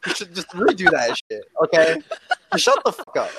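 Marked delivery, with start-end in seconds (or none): 2.5-3.3 high yell through laughter; laughing shout. Real, not acted. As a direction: yell it while cracking up. Laughing rant at friends.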